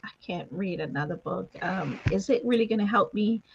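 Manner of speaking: softly voiced hesitant doubter; doubtful reader. Host voicing a viewer unsure about another book, soft hesitant doubt. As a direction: speak low-key and halting, lightly playing someone unsure. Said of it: "talk to that person right now that's looking and saying".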